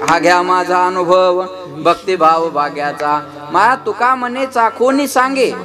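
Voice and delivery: slow, drawn-out devotional verse; abhang recitation. Acted. Preacher giving the saint's abhang on experience, slow recitation. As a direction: recite the abhang with lingering line endings.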